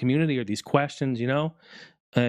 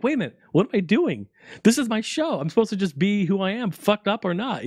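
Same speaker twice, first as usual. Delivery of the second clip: retold self pep talk; 6 semitones higher than usual. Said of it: "And then I was like".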